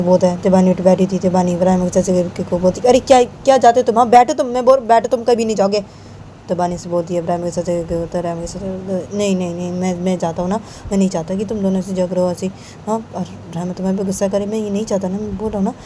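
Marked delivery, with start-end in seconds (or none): 2.8-5.8 higher-pitched, insistent objection; mildly heated acted scolding; agitated protest. Acted protest against his leaving. 9.2-15.7 quiet, acted reassurance; subdued, conciliatory character voice; soft placating. Uncle placating, declines to stay.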